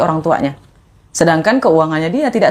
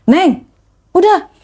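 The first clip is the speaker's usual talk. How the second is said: higher-pitched imitation of a consoling stranger; consoling older man; 11 semitones higher, 3 dB louder, much slower than usual. Stranger steps in to a crying rider, imitated consoling call. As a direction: step in to hush someone crying. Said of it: "tiba-tiba ada bapak-bapak yang bilang".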